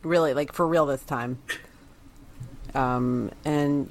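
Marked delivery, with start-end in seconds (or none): 2.7-3.9 creaky vocal fry; low creaky fry on the sign-off. Real, not acted. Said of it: "There's some vocal fry".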